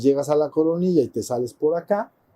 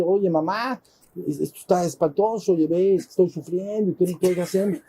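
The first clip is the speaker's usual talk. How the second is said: put-on higher, whiny kids to mom; complaining children; 4 semitones higher than usual. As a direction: whine to mom in a raised voice. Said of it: "y te empiezan a quejar".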